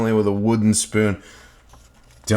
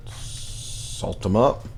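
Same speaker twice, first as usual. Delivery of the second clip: whisper; 2 semitones lower, 5 dB quieter, much slower than usual. Acted. Cooking aside.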